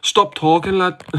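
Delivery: a failed try at a fighter's voice; quick mock impression; badly faked impression. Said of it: "I can't do a good one".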